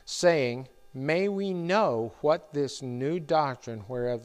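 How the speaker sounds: slow, measured Bible reading; scripture reading. Acted. Pastor reading Acts to the congregation, slow and solemn. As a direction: read the verses slowly and solemnly. Reads scripture passage aloud.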